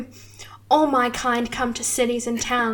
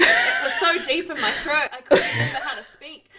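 laughing; 2 semitones higher than usual. Real, not acted. Speaker laughing out of character.

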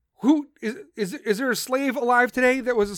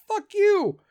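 much higher, loud mock yell; defiant yell; 10 semitones higher, 4 dB louder than usual. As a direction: shout it back at them, fed up. First responders rejecting the military.

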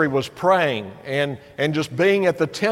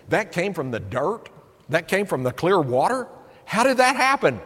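wondering amazement. Retold or imitated. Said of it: "and you think".

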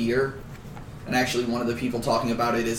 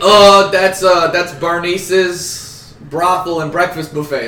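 bad New York accent; 3 semitones higher, 7 dB louder than usual. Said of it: "the guy with the bad New York accent".

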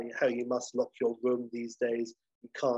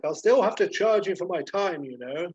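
higher, well-spoken courteous voice; well-spoken professional; 6 semitones higher, 5 dB louder than usual. Acted. Appraiser telling the hotelier about charges, well-spoken and higher. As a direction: state the fee in refined speech. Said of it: "You know, very well spoken".

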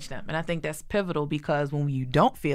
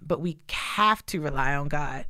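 ordinary delivery

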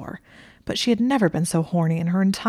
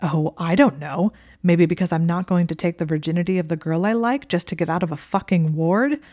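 irritated sarcasm; 3 dB louder than usual. Acted. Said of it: "looking at her with irritation".

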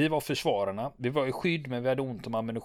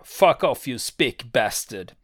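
defiant shout; 6 dB louder, slower than usual. Retold or imitated. Sergeant major shouts back at the Argentines, angry yell. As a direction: bark the insult back at the enemy. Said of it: "Han svarar".

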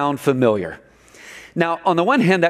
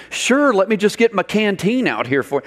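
snarky; 5 semitones higher than usual. Retold or imitated. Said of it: "if he had a snarky moment".

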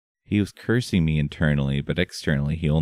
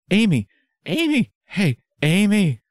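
calling out; 5 dB louder than usual. Acted. Paladin calling to snap her out.

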